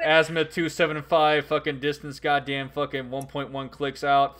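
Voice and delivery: radio call for fire, steady; calm radio call for fire. Pretend. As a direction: call in artillery over the radio.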